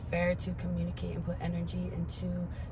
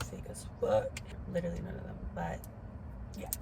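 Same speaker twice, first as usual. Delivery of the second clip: whispered aside; 5 dB quieter, faster than usual. Real, not acted. Bitter aside about absent family.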